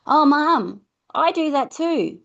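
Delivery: put-on high, eager child voice; lightly voiced young child; child's voice. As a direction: chime in like a small kid.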